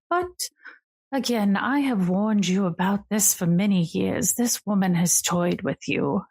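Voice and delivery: lightly voiced regal sister, grave warning; a touch of a queenly elder sister cautioning. Sister warning her brother about the woman, lightly regal and grave.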